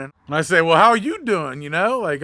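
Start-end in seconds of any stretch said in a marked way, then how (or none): 0.6-1.6 slow, a bit louder, cool and curt; mildly pissed off. Retold or imitated. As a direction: hold back the anger, let a little show. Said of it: "I'm pissed off a little bit".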